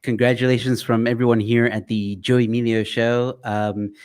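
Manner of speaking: smooth radio announcer read. Acted. Host congratulates award nominees in his radio voice. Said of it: "I tried to put on my radio voice".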